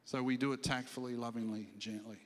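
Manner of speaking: low, soft voice, fading further; gentle summing-up. Shown as a demonstration. Preacher summing up how to speak truth in love, low gentle voice.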